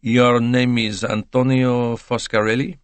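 put-on slow, measured accented question; lightly voiced foreign interrogator; foreign detective. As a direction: confirm the name slowly and politely. Poirot questions new witness.

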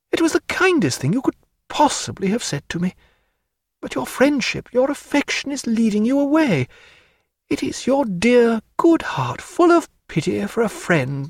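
a hint of a lively lady mocking her paint; Diana. A narrator's reading. Narrator voicing Diana.

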